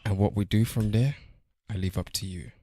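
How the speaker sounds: understated movie monologue; Neo. Acted. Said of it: "That was Neo".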